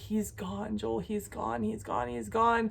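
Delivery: mock sobbing, soft and high, barely getting words out. Retelling a moment on the dock with her husband, re-enacting her own crying. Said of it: "I'm crying and I'm like".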